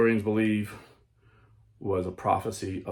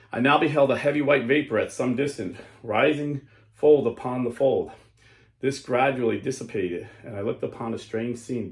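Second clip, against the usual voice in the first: solemn, measured story narration; grave storyteller voice; dramatic reading. Acted. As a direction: read it like an awed vision. Reads a vision aloud.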